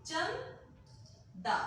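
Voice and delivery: चंदा said very slowly, nasal न held closed behind the tongue; slow demo of चंदा. Shown as a demonstration. Teacher slowly models चंदा for her class. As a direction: stretch out चंदा and hold the nasal inside. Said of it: "अगला उदाहरण देखिए".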